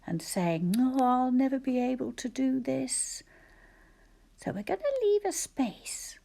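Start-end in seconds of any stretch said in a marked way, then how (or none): 0.8-3.2 higher, quicker voice putting himself down; lightly acted defeatist moan; mock self-doubt. Teacher voicing a pupil being negative, in mock self-doubt. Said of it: "stops putting himself down and saying".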